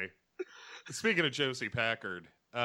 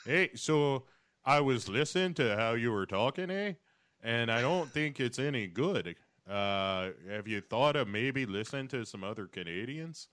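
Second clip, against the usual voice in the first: mock Canadian. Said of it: "And I'm Canadian?".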